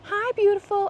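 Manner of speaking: animal voice. Real, not acted. Vlogger greeting a deer, high animal voice. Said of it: "I apologize for my animal voice".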